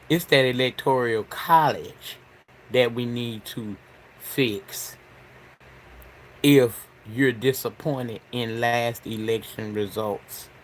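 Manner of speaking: numb from the dentist; talking through a numb mouth. Real, not acted. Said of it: "'cause my mouth is numb as hell".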